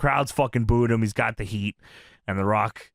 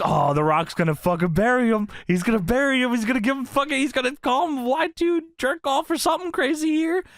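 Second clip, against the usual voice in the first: hyped prediction; 9 semitones higher than usual. Retold or imitated. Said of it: "I was like".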